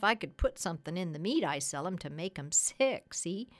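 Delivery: lightly voiced folksy tradesman; chatty, lightly played sales pitch to the doctor; persuasive cat's meat man.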